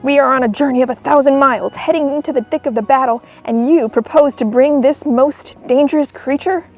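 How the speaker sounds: stern. Acted. Colonel objecting loudly.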